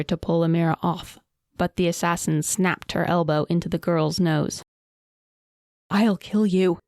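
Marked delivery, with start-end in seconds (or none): 5.9-6.8 roaring. A narrator's reading. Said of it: "Amira roared".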